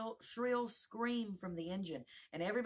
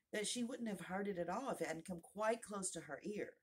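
usual speaking voice

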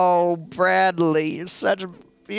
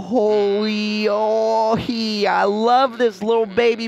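louder, gushing new mom; overjoyed mother; 4 semitones higher, 4 dB louder, slower than usual. Acted. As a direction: gush over the newborn. Mother gushing over baby.

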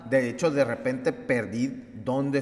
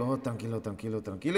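soft, lower self-reassurance; soft, calming "tranquilo" to himself; soothing himself; 3 semitones lower, 5 dB quieter than usual. Retold or imitated. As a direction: talk yourself down gently. Calming himself during the pain.

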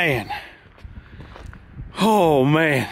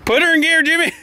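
laughing; 3 dB louder than usual. Real, not acted. Laughing while calling out.

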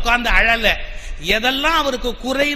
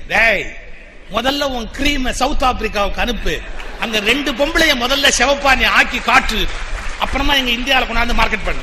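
louder, indignant telling-off; scolding the company; 4 dB louder than usual. Retold or imitated. Speaker retells his letter to the cream company as a loud scolding. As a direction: give the cream company a piece of your mind. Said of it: "நான் அந்த கம்பெனிக்கே எழுதுனேன்".

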